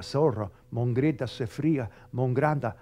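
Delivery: tongues syllables in low voice; speaking in tongues. Shown as a demonstration. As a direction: babble in tongues as a demo. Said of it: "empiezas a orar en lengua".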